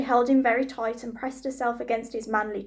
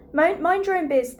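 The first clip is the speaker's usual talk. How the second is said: higher, loud snap; snapped reply; 5 semitones higher, 5 dB louder than usual. A narrator's reading. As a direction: brush her off rudely. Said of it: "the prince replied".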